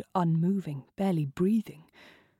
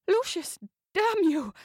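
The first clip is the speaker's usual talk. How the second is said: impatient lover cursing him; frustrated countess; 11 semitones higher than usual. Acted. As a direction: snap at him in frustrated passion.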